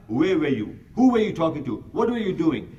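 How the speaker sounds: a touch of an angry husband grilling his wife; mock suspicious husband demanding answers; mock jealous interrogation. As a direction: fire the questions at her, half-acted.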